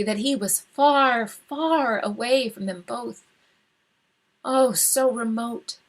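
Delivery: usual speaking voice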